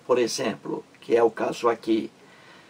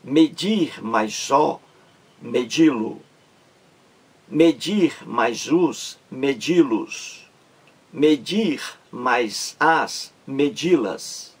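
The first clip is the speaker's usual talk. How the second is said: slow worked examples; slower than usual. Shown as a demonstration. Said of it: "Então fica medir mais a".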